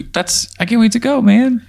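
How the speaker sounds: high, exasperated retort. Pretend. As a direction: snap back, fed up. Player snaps back at hyphen.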